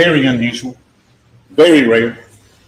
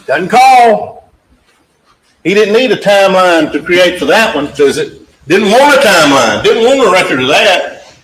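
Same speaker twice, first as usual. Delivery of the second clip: louder and higher, hammering the point home; forceful emphasis; 4 semitones higher, 5 dB louder than usual. Real, not acted. Prosecutor to jury about the missed call, raised forceful emphasis. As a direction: press the jury hard, voice raised.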